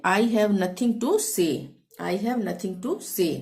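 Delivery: each English word said very slowly and clearly; slow dictation. Shown as a demonstration. Teacher dictating the English sentence, very slow. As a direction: spell it out slowly for learners. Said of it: "इसको हम अंग्रेजी में कैसे बोलेंगे?".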